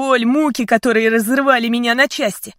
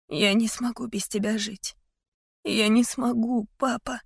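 tearful plea; 3 semitones higher, 5 dB quieter than usual. A narrator's reading. Daughter weeps to father.

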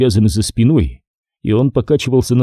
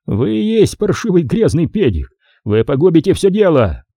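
a mildly furious Nick; Nick's angry voice; 7 semitones higher than usual. A narrator's reading. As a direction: voice Nick berating the major.

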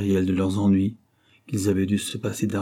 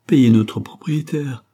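loud, slow, higher-pitched demand; drawn-out, raised-voice demand; exclaimed demand; 4 semitones higher, 7 dB louder, slower than usual. A narrator's reading. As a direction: cry it out as a demand. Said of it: "s'écria-t-elle".

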